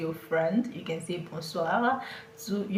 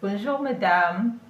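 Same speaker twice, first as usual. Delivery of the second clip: friendly greeting; 5 dB louder than usual. Shown as a demonstration. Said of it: "You can say bonjour to that's your best vendor".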